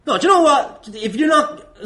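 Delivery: usual speaking voice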